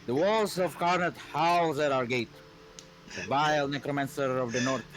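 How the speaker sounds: solemn rallying proclamation, lightly husky; husky queen's speech. Acted. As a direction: address the troops like a stern queen. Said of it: "deep, husky, female voice".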